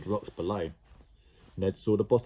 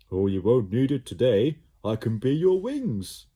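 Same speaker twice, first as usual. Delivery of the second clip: louder blob voice; cheerful blob; 3 semitones higher, 7 dB louder than usual. A narrator's reading. Slime offering to be Ned's wings, louder. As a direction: offer it brightly. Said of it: "Slime offering to fly".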